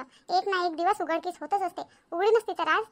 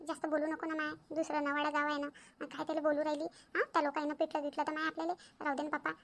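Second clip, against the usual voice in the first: softer, cautioning undertone; hushed placating; 2 semitones lower, 6 dB quieter than usual. Acted. Woman urges Shantabai not to argue in another village, hushed. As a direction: talk her down quietly.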